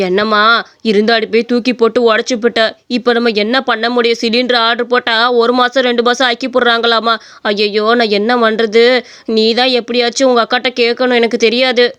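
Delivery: lightly voiced reproachful elder; mother-in-law, exasperated. (சலிப்போடு பேசும் மாமியார் குரல்)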